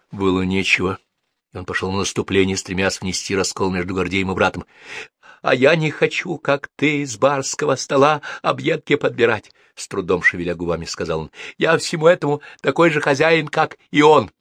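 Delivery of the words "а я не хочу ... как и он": higher, louder bitter retort; defiant young man. Acted. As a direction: throw it back at him with contempt. Egor's defiant voice. (дерзкий ответ, выше и громче)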